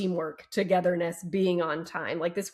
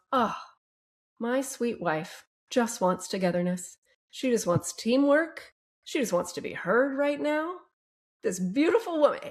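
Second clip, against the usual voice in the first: mock sweet husband; 5 semitones higher than usual. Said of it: "he doesn't go".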